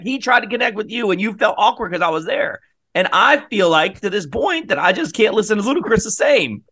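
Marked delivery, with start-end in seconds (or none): 0.0-2.6 high, raised accusing voice; mock jealous husband; accusing shout. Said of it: "And I'm like".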